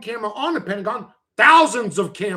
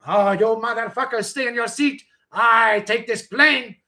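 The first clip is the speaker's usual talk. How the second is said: mock hijacker threat.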